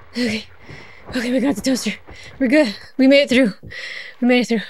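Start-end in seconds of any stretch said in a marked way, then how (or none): 4.2-4.6 hushed whispered echo of the cheer. Real, not acted. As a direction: whisper it to yourself, relieved. Repeats it as a whisper.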